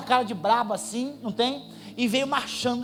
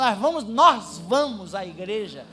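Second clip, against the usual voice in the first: slowed, stretched quote; 2 semitones lower, 5 dB louder, slower than usual. Retold or imitated. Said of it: "quando ela falou".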